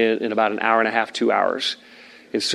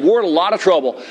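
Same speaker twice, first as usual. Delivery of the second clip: retold urgent yell; 4 semitones higher than usual. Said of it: "I just screamed".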